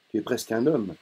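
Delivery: a touch of domineering father; mildly commanding father. Acted. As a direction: talk down to him, lightly firm. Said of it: "il dit d'un ton dominateur".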